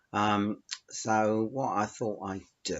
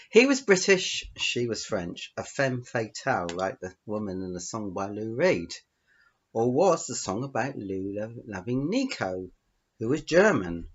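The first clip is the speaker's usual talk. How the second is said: measured storytelling with emphasised openings; story narration; 2 semitones higher, 4 dB louder than usual. Acted. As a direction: read your short story aloud to listeners. Reads out own story.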